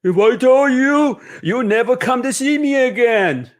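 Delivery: wink at her with the secret; teasing grandmother. Acted. Grandmother keeping her kumquat recipe from Mama, playful teasing. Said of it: "she said and winked".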